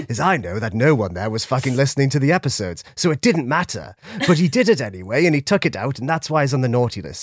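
low, jolly Santa Claus voice. Acted. Plays Santa on podcast.

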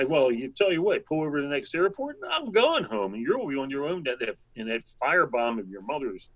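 retold huffy threat, pitch jumping up; mock snippy bickering. Traveler threatening to quit the road trip, mock snippy bickering. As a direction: snip back in a lightly acted quarrel. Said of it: "snipping at each other".

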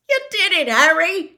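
high, loud hoarse cheer; overjoyed hoarse shout. A narrator's reading. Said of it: "said Hagrid hoarsely".

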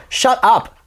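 high, loud imitated stage put-down; exasperated mock shout. Musicians on the stage to a drunk kid, shouting him down. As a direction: shout down a heckler, playing it for laughs. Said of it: "We're actually on the stage going".

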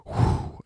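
soft blown breath; acted exhale onto listeners. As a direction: blow air out gently, imitating a breath. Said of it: "Then he breathed on them".

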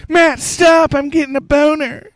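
high, loud mock swoon. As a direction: squeal it like a smitten fan. Mock swooning reply to sexy voice.

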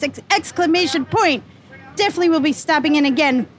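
light hint of a Jersey Shore accent. Donna reading a glowing review in a light Jersey Shore accent. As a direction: read it like a mild Jersey Shore girl. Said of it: "a little bit Jersey Shore".

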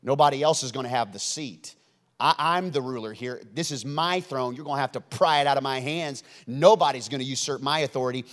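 a playground bully hogging the seat, speeding up; possessive bully kid. Retold or imitated. Herod as a bus bully guarding his seat, mock bratty. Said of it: "like the kids on the bus with Forrest Gump".

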